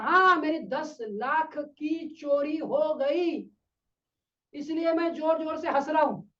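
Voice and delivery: very slow, drawn-out confirmation, imitated; emphatic repeat. Happy man confirming his loss to doubters, slow emphatic repeat. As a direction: stretch out each word as the odd happy man. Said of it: "फिर से बता, क्या सही सुना हमने".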